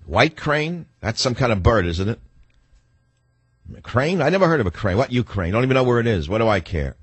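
playing dumb, shrugging it off; sarcastic know-nothing who can't place Ukraine; mock ignorant American. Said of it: "That's my attitude".

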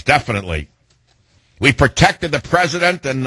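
proud, earnest press-conference statement, mildly put on; a hint of a police chief praising her officers at the podium; Chief Lanier. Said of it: "Chief Lanier, you wanna step forward to the microphone now?".

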